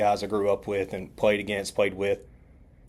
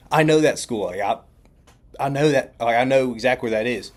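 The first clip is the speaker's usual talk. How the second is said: louder, higher, eager retelling; excited recognition; 3 semitones higher, 5 dB louder than usual. Retold or imitated. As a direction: act out thrilled recognition.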